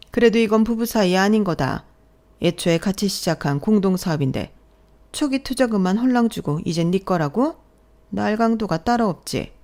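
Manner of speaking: lightly voiced indignant mother-in-law; accusing mother-in-law. Mother-in-law calls daughter-in-law a robber, indignant. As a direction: accuse with mild outrage.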